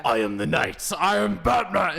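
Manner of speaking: slow, loud, grandiose mock hero voice, lightly done; Roddy impression. Caster getting into a Roddy character, slow, grandiose mock voice. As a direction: puff up like a self-serious hero, slowly. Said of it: "if you did wanna do a Roddy impersonation".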